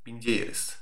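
lulling low murmur; dreamy hushed musing. Pretend. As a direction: drift off quietly, leaving long gaps. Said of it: "Gözüm kapalı dinleyeyim mi bu konuşmayı?".

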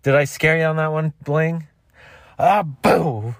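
high teasing voice; taunting prankster. Acted. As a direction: gloat then shout boo.

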